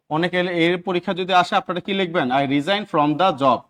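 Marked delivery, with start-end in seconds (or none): 2.4-3.6 very slow, word by word, showing the wrong sentence; slow dictation. Shown as a demonstration. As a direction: dictate the wrong example slowly. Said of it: "এই from জীবনও হবে না". (ধীরে ধীরে ভুল বাক্য বলা)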